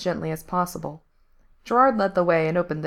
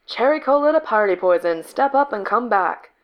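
radio voice; 4 semitones higher, 4 dB louder than usual. A narrator's reading. Radio transmission call.

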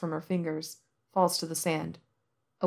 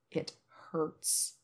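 whispered; 10 dB quieter than usual. A narrator's reading.

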